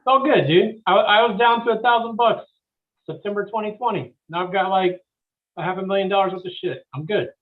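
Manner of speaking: high, loud carefree dude. Pretend. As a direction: play a breezy don't-worry guy. Mocking carefree flipper voice.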